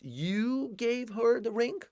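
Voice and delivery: high, slow, incredulous rising question; Ross's shocked question. Retold or imitated. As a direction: act out Ross's stunned disbelief. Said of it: "como o Ross fez".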